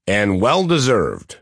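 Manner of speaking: slow, slight Midwestern Jewish twang; a touch of nasal Midwestern twang. Retold or imitated. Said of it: "in my nasal Midwestern Jewish twang".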